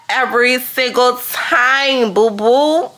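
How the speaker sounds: playful insistence, each of EVERY SINGLE TIME stretched; emphatic sassy vow. Real, not acted. Vowing to celebrate each subscriber.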